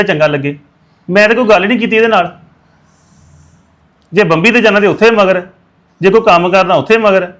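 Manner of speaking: loud, heated scolding; angry outburst. Acted. To Daljeet who keeps pestering him for forgiveness, loud angry scolding. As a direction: tell him off hard, you're fed up. Brother refuses apology, heated quarrel.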